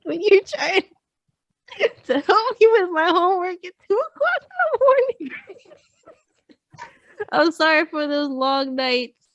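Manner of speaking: high, loud voice cracking with laughter; breaking up mid-apology. Real, not acted. Daughter apologizing to mom for late homework help, breaking up. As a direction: squeak the words out between breaks.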